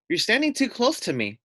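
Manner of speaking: a hint of a sly lamb. Lamb voiced in story.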